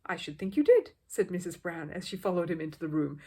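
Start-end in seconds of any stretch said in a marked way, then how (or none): 0.1-0.9 louder, stern reply; a firm mother's rebuke. A narrator's reading. Mother scolding the bear.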